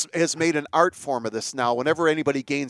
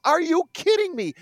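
much higher, hammed-up announcer exclamation; mock announcer; 13 semitones higher than usual. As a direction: parody the hyped play-by-play call. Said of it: "Guy makes a great catch with the baseball".

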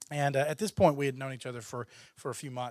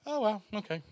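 mock deflated; 7 semitones higher than usual. Deflated reaction to harsh rejection.

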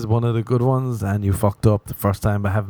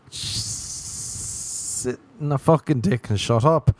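slow, drawn-out put-down; 3 semitones higher, much slower than usual. Acted. Comic telling off a critic, slow and sneering. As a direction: drag it out slowly, sneering.

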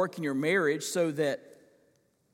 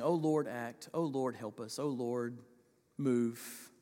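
quiet, low, earnest pleading; hushed plea; 5 semitones lower, 7 dB quieter than usual. Shown as a demonstration. Preacher voicing Daniel's prayer in a hushed, earnest plea. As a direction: murmur the prayer softly, low and intense. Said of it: "You can, you can feel the intensity".

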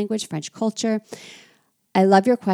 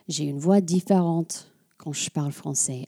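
a lightly shifted French speaking voice, in French; her French voice. Shown as a demonstration. Podcast host showing listeners her French voice, lightly shifted. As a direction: let the French voice come through. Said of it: "I have a different voice when I speak French".

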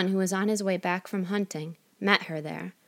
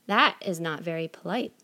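calm, not angry. Acted. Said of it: "said the fairy without getting angry".

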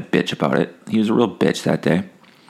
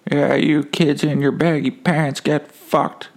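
slow, higher mock grumble at skateboarders; cranky old man; 6 semitones higher, slower than usual. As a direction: ham up an old grouch for laughs. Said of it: "I'll just be like".

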